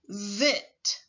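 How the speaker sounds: "zit." with a long buzzing z; teacher drawing out the z. Shown as a demonstration. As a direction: buzz the z of "zit.". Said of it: "Repeat after me".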